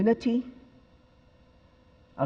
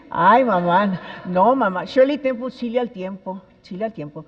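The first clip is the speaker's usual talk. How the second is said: louder, pleading ay mamá, no mamá; embarrassed child protest; 2 semitones higher, 7 dB louder than usual. Retold or imitated. Daughter embarrassed, begging her mother to stop, loud pleading. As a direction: cringe and beg your mother to stop, raised voice. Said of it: "child scolding mother".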